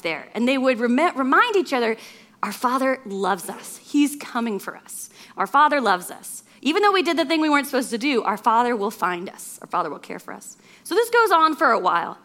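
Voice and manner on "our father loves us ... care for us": tender reassurance. Acted. Brothers comforting each other.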